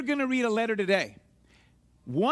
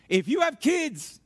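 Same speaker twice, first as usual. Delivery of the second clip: ordinary delivery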